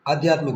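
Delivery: आध्यात्मिक opened on a long आ; long initial आ. Shown as a demonstration. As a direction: correct the word, starting आध्यात्मिक with a full आ sound. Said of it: "ये आ आएगा".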